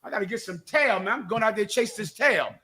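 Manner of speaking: low, soft mock bro talk; lightly voiced guy bragging about going out; imitating a brother. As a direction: lay it back like the guys at the club. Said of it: "I've heard brothers say".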